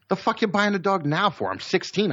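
mock teenage outrage at mom; teen indignation. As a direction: scoff it like a sulky sixteen-year-old. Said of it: "And I'm like".

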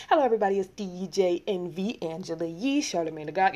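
a light take on a morning radio host opening the show; lightly voiced radio host roll call; radio show intro. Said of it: "you know how they have the Breakfast Club introductory".

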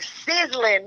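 "sizzling" said as sizzlin, dropping the final g; Texas sizzling. Shown as a demonstration. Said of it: "That's how we say it down here".

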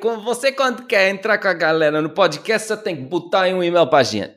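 lightly put-on Brazilian accent; half-hearted Brazilian Portuguese imitation. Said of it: "Isto é Brasil".

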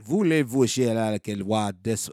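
put-on French, fumbling for words; French accent. Host recalling a French phrase, put-on French accent. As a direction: attempt French in a mock accent. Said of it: "I would actually have to talk French".

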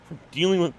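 talking through hiccups. Real, not acted. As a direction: hiccups breaking the words. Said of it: "I got the hiccups".

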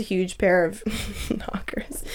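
a quick whisper, as if sharing a secret; whispering about her sister; whispered aside. Real, not acted. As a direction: drop to a whisper for the cheeky part.

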